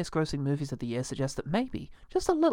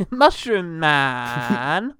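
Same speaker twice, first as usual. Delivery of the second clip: laughing; 6 dB louder, much slower than usual. Real, not acted. Laughing at hammy name.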